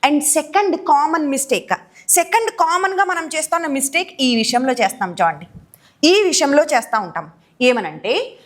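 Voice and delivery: ordinary delivery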